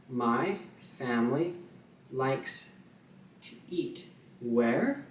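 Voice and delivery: slow, with where rising at the end; rhetorical where. Shown as a demonstration. Teacher signing a rhetorical where question, slow. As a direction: hold back, then lift where as a question. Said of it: "this is how I would say that".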